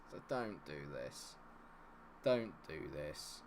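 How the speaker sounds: low, subdued pleading; despairing plea. Real, not acted. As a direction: beg under your breath, slowing down. Begs the game not to collapse.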